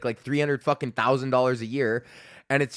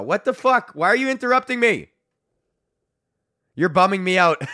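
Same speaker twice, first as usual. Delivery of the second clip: mock annoyed outburst; 7 semitones higher, 5 dB louder than usual. Real, not acted. Interrupted by texts from Courtney.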